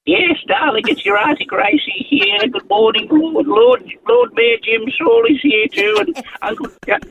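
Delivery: a lightly voiced, sweet old auntie greeting the listeners; Auntie Gracie voice. On-air request from the host, a lightly done older-lady Auntie Gracie voice. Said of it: "Can you do a bit of aunt, the aunt voice for us now".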